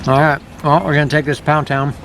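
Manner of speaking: talking with his mouth full. Real, not acted. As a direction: speak around a mouthful of food. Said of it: "Sorry, talking with my mouth full".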